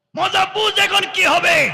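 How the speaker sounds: high, loud, enraged furious shout.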